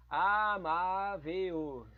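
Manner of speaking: "Amável" drawn out, stress on má; very slow word. Shown as a demonstration. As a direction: stretch out "Amável", leaning on the má. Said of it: "são sílabas paroxítonas".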